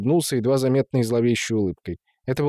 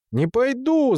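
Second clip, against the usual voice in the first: high-pitched wail of refusal; defiant yell; 12 semitones higher, slower than usual. A narrator's reading. Son defies his father's order, yelling back. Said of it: "завопил в ответ Дариуш".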